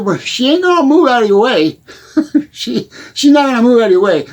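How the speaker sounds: laughing while he says she won't budge. Real, not acted. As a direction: chuckle through it. Laughing at his own joke.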